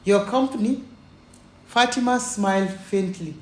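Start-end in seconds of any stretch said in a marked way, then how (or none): 0.0-0.8 stunned brother's question, louder; can't believe what he heard; shocked. A narrator's reading. Brother overhearing on the phone, shocked.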